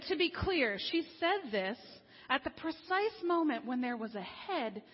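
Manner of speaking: loud, amused, incredulous aside; wry disbelief. Retold or imitated. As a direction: let the laugh break through on the end. Blogger's wry aside on the doctor.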